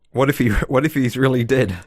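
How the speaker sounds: lightly hammed-up alarm; imitating dawning worry. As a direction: act out someone suddenly doubting, voice lifted. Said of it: "Sam's starting to think".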